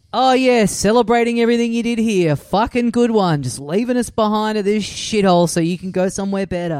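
sarcastic, resentful mock praise; bitter sarcasm. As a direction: sneer out the fake congratulations. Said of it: "a simmering of just resentment there".

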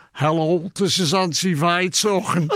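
put-on light Liverpool auntie accent; a hint of Liverpool Auntie Vi on the phone. Auntie Vi answering the tape, light Liverpool accent. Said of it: "much of a Liverpool accent".

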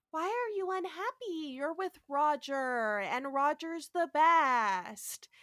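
slow, drawn-out android wonder; Andrea. Retold or imitated. Android asks Christine why she is unhappy, drawn-out naive voice. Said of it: "Andrea comes in and is like".

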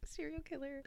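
high, hushed, spooky whisper; dramatic whisper. Acted. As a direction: whisper it like a ghost story. Dramatic reveal of the topic.

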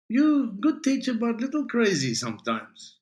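put-on broken English with a light Spanish accent; Spanish student accent. Spanish student addresses teacher.

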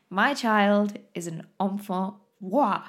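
enfant roi in a hammed-up French accent; bad French accent. Mum confessing her child is a child king, bad French accent. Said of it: "my French accent".

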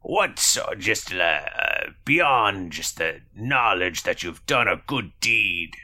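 hesitant quest giver in lightly put-on accent; Granona. Quest giver questions the reward request, lightly accented character voice. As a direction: haggle haltingly in a character accent.

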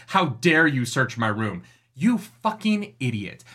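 slow, mock-affronted challenge then exasperated insult; indignant outrage. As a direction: draw out each word in scorn. Quotes character, then insults her indignantly.

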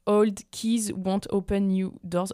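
English spoken with a thick French accent, slow; a hammed-up French accent on an English proverb. Shown as a demonstration. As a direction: say it in your best French accent, slowly. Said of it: "Je prends mon meilleur accent français".

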